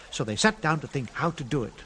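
ordinary delivery

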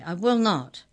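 shouted refusal. Acted. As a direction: hold the shout through it. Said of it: "shouted Mallory".

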